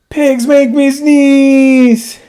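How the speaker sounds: dramatic wail. Acted. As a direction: wail it as a comic tragedy. Gerald wails to Doctor Cat.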